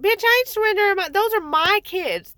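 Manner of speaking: high, fast angry outburst; outraged retort. Real, not acted. Mother refusing caseworker's demand, high angry outburst. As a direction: snap back, furious and quick.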